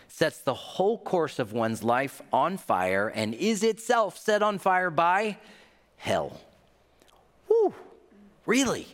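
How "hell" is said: hushed. Acted. Sermon reading, dropped to whisper.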